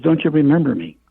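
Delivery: mildly voiced old aunt calling out in joy; excited old aunt. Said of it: "she goes".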